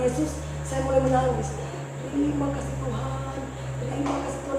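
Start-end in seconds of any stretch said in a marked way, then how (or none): 2.1-4.6 soft, teary whispered thanks; tearful thanks. Retold or imitated. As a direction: thank God quietly through tears. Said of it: "sambil mencucurkan air mata".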